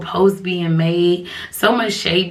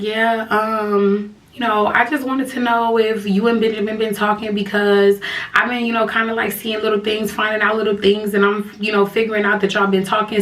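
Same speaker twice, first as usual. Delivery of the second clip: sad on the phone; 2 semitones higher than usual. Retold or imitated. Girlfriend asking if they've been talking, lightly sad. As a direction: imitate her sounding hurt and unsure. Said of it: "she sounded so sad on the phone".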